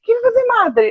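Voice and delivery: high, hammed-up question; mock-dramatic high musing; wondering aloud. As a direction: toss it up high and playful. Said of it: "eu pensei".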